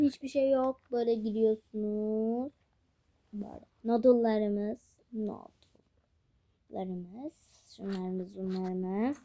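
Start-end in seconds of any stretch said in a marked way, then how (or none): 3.3-9.2 talking while chewing gum. Real, not acted. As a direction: gum in the mouth. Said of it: "Ağzımda sakız varken ben".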